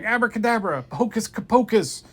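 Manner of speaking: high, loud triumphant chant; triumphant spell. Acted. Kid finally gets the spells, loud triumphant cry. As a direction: cast it with glee.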